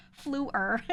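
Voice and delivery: "Floor" with a gliding vowel; family pronunciation. Shown as a demonstration. Speaker repeating the family's "Floor", a glide. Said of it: "It's like that".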